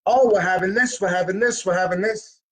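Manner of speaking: a touch of a proud Italian mother rattling off the menu; lightly imitating the family bragging about the holiday food; family on the phone.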